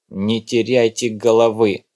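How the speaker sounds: slow, firm order; commanding. Acted. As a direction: order her to keep calm. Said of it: "приказал он".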